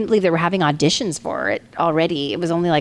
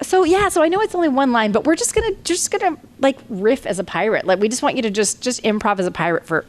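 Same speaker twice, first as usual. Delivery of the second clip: casting director voice; 5 semitones higher than usual. Retold or imitated. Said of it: "they were like".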